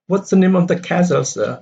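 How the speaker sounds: high, quick, with NAME and CASTLE stressed; stress on key nouns. Shown as a demonstration. Another boy's question, stressing NAME and CASTLE. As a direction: lean on "name" and "castle", let "sir" drop. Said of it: "So these are the stress".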